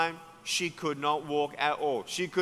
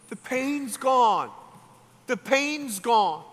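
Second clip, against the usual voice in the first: amazed; 6 semitones higher, 3 dB louder, slower than usual. Retold or imitated. Healed woman amazed at no pain.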